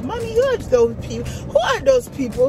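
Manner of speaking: put-on a child asking Mommy, half crying; imitating young son. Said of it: "That's what he said".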